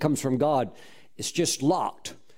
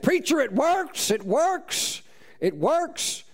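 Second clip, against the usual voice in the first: higher, slow, overjoyed repeat; excited; 10 semitones higher, slower than usual. Retold or imitated. Farmer Red grabbing the preacher, excited and much higher. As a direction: burst out with the good news.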